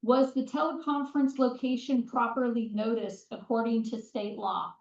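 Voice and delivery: put-on camp counselor projecting to kids; summer camp voice. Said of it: "I'm gonna use my summer camp voice".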